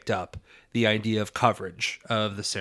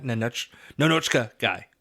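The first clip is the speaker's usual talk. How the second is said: Russian-accented Nanochka. Shown as a demonstration. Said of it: "Should I be saying guy like that?".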